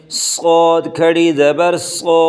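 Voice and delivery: صاد thick and heavy, صو with rounded o; heavy saad. Shown as a demonstration. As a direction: fatten the s sound. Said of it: "صاد کو موٹا کر کے پڑھیں". (صاد کو موٹا کر کے)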